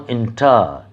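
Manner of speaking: এন্টার with no weight on টার; এন্টার, falling on an unstressed ending; unstressed last syllable. Shown as a demonstration. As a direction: stress এন, let টার fall away in এন্টার. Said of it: "তাতে যদি সেই জোরটি না থাকে".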